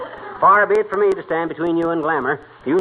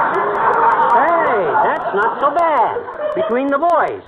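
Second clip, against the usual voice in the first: pleased with himself; 8 semitones higher, much slower than usual. Acted. Savoring own pun.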